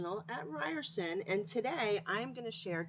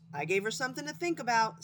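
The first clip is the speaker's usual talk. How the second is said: boasting skunk; 4 semitones higher, 5 dB louder, faster than usual. Acted.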